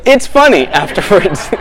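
mock self-amused. Shown as a demonstration. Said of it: "good jokes are when you say".

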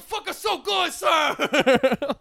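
very high, loud mock vaguely Asian accent; hammed-up screaming man with a vaguely Asian accent. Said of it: "Just a man screaming".

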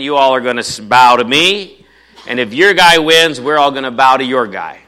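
Goliath bellowing a loud challenge across the valley; a boastful giant yelling his challenge to the army; taunting shout. Acted. Pastor voices Goliath's taunt.

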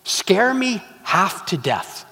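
slow, measured last wish; deliberate punchline. Acted. Wife gives the genie her last wish, slow deliberate punchline. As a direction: draw it out for the joke.

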